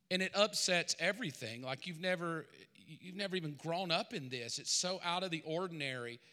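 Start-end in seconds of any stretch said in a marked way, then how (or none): none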